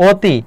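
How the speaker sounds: অতি said 'oti', with closed o; অ হয় ও. Shown as a demonstration. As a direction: begin অতি on a rounded o. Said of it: "ও হয়ে যায়". (অতি-কে 'ওতি' উচ্চারণ)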